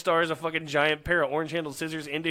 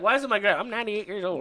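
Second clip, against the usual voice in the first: put-on old lady; 5 semitones higher than usual. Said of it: "I was like".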